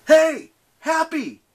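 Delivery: loud, high-pitched yell; big, high shout; taunting yell. A narrator's reading. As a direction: yell out to grab the monster's attention. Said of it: "he yelled".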